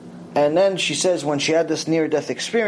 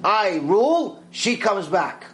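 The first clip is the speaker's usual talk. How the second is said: higher, slow verdict; decisive ruling; 4 semitones higher, slower than usual. Retold or imitated. Rav Ovadia overruling the other judge, slow and decisive. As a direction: hand down the final ruling. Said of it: "slams on the table and says".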